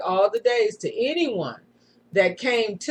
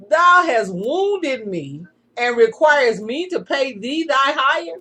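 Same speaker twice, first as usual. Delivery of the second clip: higher, mildly affronted question; indignant protest; 6 semitones higher, 4 dB louder than usual. A narrator's reading. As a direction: read it as an understated, incredulous challenge. Reads Eliezer's protest to his attacker.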